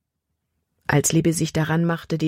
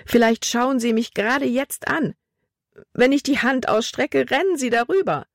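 high, panicked voice; panicky; 7 semitones higher than usual. Acted. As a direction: spiral into panic about the mice. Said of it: "von Panik überwältigt". (panisch, mit hoher Stimme)

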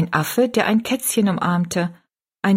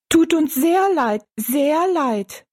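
much higher, piping dwarf voices; dwarf chorus; 8 semitones higher, slower than usual. Acted. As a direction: echo it in tiny piping voices. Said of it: "echoten die Zwerge". (Zwerge, hoch und piepsig)

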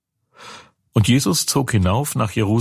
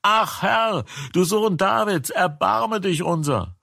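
crying out more; 10 semitones higher than usual. A narrator's reading. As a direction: push the plea higher still, more desperate. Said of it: "Aber sie schrien noch mehr".

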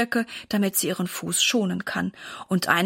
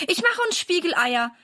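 put-on higher, bright-eyed little girl reassuring her mum; eager young girl; 7 semitones higher than usual. A narrator's reading. Daughter promises her hurt mother to fetch Papa, eager girl voice. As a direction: play the keen daughter rushing off to help.

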